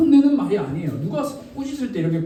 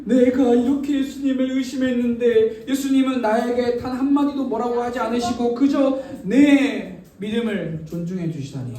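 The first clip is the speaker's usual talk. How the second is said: tearfully moved. Acted. Thomas moved by Jesus's respect, acted tearfulness. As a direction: voice Thomas overwhelmed with remorse. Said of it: "눈물을 흘리며".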